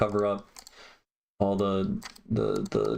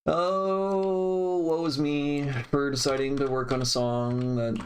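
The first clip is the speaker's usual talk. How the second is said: dramatic lament; 5 semitones higher, slower than usual. Pretend. Mock lament over mixing work.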